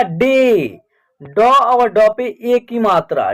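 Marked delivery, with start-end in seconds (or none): 0.0-0.8 डे with a held 'ay' sound; long E in डे. Shown as a demonstration. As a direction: draw out the vowel in डे as 'ay'. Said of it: "ए का उच्चारण ए हो रहा है". (डे में लंबा ए)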